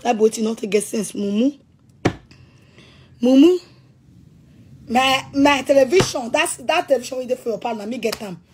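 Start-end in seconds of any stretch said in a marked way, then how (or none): 3.2-3.6 loud insult. Real, not acted. Ranting at Victor, yells mumu at him. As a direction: throw the insult at him at full voice.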